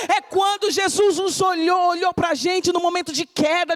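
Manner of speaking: normal talking voice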